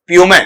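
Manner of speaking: प्यूमे said with a final e, not पूमा; correct pronunciation. Shown as a demonstration. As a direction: say प्यूमे ending on e. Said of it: "पूमा नहीं होता है".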